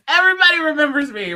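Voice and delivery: proud, punchier second take; excited repeat. Shown as a demonstration.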